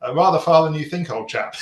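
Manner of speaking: hammed-up stiff-upper-lip British English; posh British accent. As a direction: play the stereotypical Brit abroad. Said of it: "in my most British accent".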